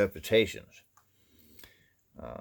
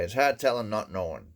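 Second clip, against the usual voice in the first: folksy Maine saying; 3 semitones higher than usual. Retold or imitated. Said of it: "Or they'll say".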